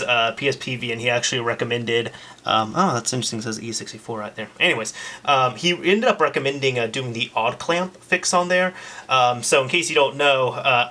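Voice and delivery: talking through a face mask; muffled speech behind a mask. Real, not acted. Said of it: "if I sound a little bit muffled".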